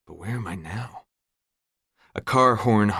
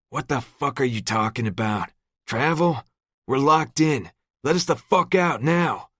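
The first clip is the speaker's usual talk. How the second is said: rising panic, climbing higher and louder; trapped man screaming at the locked door; panicked screams; 7 semitones higher, 4 dB louder than usual. A narrator's reading. Locked-in man screaming to be let out, panicked. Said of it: "His panicked screams".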